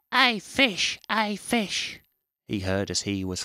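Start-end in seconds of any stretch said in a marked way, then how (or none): 0.1-1.0 loud, high squirrel call across the water. Acted. Squirrel calls out to fish. 1.1-2.0 squirrel calling again. Acted.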